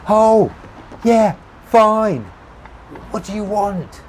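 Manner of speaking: high, loud call back; shouted reply. A narrator's reading. Narrator answering Tommy across traffic, shouted reply. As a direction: holler back over the noise.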